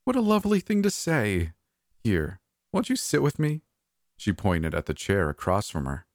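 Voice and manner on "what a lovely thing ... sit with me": put-on much higher, sweet old diva voice; high-pitched hoarse diva. A narrator's reading. Old diva inviting the narrator to sit, high sweet voice. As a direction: play the fussy old Hollywood diva, pitched way up. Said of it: "in that high-pitched, hoarse voice of hers".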